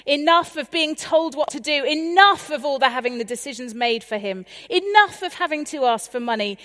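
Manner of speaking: rising, loud, fed-up list; exasperated. Acted. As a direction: pile on the frustration, loud. Younger son fed up at home.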